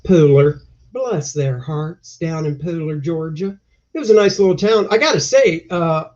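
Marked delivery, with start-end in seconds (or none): 0.0-3.6 put-on Southern accent. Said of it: "I feel misrepresented by that accent".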